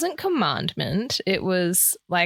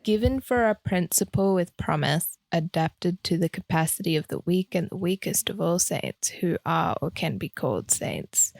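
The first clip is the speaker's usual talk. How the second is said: monotone youth reading; 2 semitones lower than usual. Shown as a demonstration. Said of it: "read it in the classic monotone voice that all the youth do".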